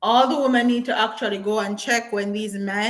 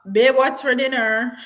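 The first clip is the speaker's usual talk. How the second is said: louder call across the room; 3 semitones higher, 5 dB louder than usual. Real, not acted. Calling partner again about dinner, raised voice. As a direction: raise the voice to reach babe.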